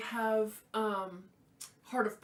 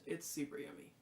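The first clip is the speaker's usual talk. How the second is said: whisper; 5 semitones lower, 9 dB quieter than usual. Real, not acted. Repeats whispered.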